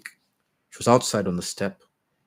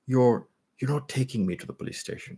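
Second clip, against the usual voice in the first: stammering; 5 semitones higher than usual. Acted. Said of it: "she stammered".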